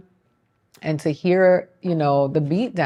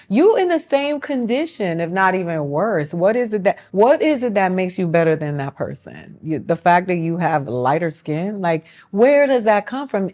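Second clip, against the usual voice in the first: heated retold challenge; 4 semitones higher than usual. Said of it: "I was just like".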